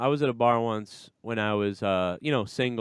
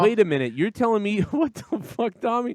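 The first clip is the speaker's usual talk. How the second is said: incredulous disbelief; 7 semitones higher than usual. Real, not acted. Incredulous at friend.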